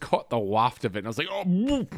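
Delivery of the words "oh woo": high whooping gag, played for laughs; retching gag. Retelling catching a whiff, mock gagging. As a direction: imitate a sudden retch at a foul smell. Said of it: "I started gagging myself".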